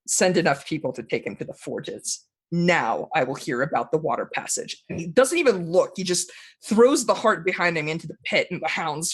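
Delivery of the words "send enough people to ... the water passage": lower, understated command; soft-spoken dark lord. Acted. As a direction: give orders quietly and low. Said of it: "he speaks softly".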